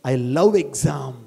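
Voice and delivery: slow soft affirmation. Shown as a demonstration. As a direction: savour "I love exam" slowly. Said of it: "repeated motto".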